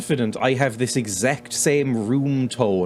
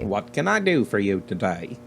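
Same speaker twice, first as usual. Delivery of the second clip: lightly imitated American postmaster, lower pitch; mock American accent; 5 semitones lower, 3 dB quieter than usual. Player parroting the game's postmaster, mock American accent. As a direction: echo him in a put-on American accent. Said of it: "Sounds like me doing an American accent".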